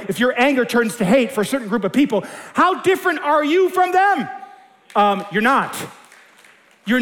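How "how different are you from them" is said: high challenge. Real, not acted. Preacher's rhetorical challenge.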